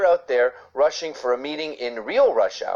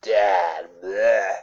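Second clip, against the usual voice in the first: mock bragging dad. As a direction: play a dad moaning about time off. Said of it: "Imagine a dad bragging, going".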